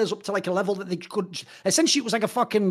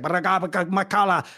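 drawn-out foreign phrase; much slower than usual. Retold or imitated. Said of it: "it was like".

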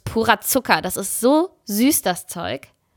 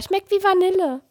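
lightly voiced small boy, higher; a hint of a little boy's wonder; Felipe as child; 9 semitones higher than usual. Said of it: "Felipe meinte sogar".

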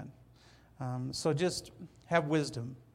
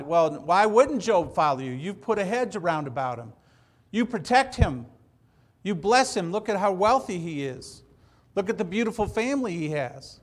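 a louder, higher, accusing retelling of Satan's taunt; Satan challenging God; 4 semitones higher, 5 dB louder than usual. Retold or imitated. Satan taunting God about protected Job, louder and accusing. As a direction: press the challenge like a sneering accuser. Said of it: "Satan said to, to God".

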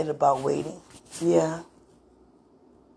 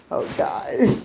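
whispered groan; 5 semitones higher than usual. Real, not acted. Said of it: "Yes, I groan".

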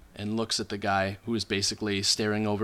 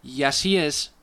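slightly raised, deliberate character voice; failed whisper; 4 semitones higher, 3 dB louder, slower than usual. Acted. Halfling informant answering a secret question, badly failed whisper. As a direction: answer too openly for a secret. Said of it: "not by any means whispering".

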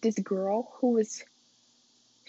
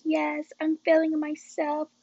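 higher, cocky and pleased with herself; playful swagger, a notch higher; cocky self-talk; 5 semitones higher than usual. Retold or imitated. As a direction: show off like you just leveled up. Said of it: "I'm like".

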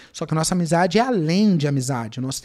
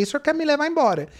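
laughing while asking; 7 semitones higher, faster than usual. Retold or imitated. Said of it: "E ri, ri, no meio do caminho eu ri".

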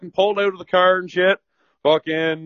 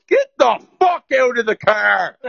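slow, laughing through a cop's order; half-laughing imitation of the cop; laughing mock cop order; 4 semitones higher than usual. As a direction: bark it out while cracking up. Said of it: "and he goes".

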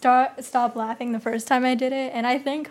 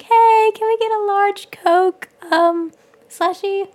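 loud, high, slow ordering voice; raised voice; 8 semitones higher, 8 dB louder, slower than usual. Retold or imitated. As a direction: project the order over the counter. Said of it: "I raised my voice".

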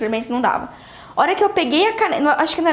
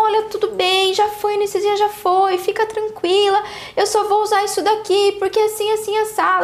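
calming reassurance; 6 semitones higher than usual. Retold or imitated. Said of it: "E eu tentei acalmar ela".

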